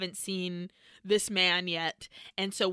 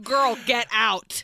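louder, drawn-out exclamation; mock urgent warning; 3 semitones higher, 6 dB louder, slower than usual. Viewer urges Jess to leave, mock urgent shout. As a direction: slowly belt out a warning.

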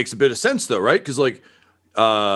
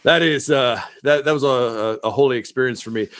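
laughing relief. Acted. NPC relieved after peeing.

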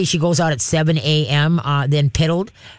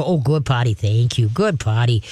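lower, calm, even praise to a puppy; a soothing, low-key good potty; 5 semitones lower than usual. Shown as a demonstration. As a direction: praise the pup gently and low, no fuss. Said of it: "you very calmly go".

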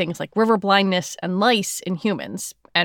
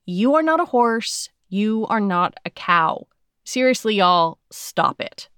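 exasperated deadpan; slower than usual. Retold or imitated. Host reads out agency's exasperated tweet.

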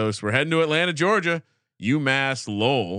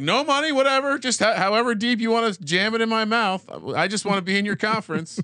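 mock pleading; 9 semitones higher than usual. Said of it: "they're like".

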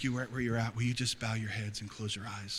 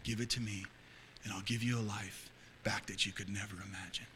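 calm quiet voice of God; 3 semitones lower, 9 dB quieter than usual. Retold or imitated. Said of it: "He said".

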